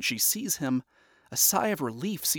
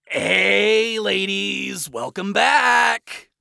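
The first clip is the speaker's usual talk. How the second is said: loud, overly cheerful greeting; forced cheer; 6 semitones higher, 8 dB louder, much slower than usual. Acted. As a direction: fake bright welcome.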